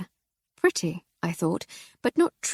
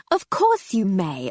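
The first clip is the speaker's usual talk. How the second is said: relieved; 4 dB louder, slower than usual. A narrator's reading. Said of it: "with barely concealed relief".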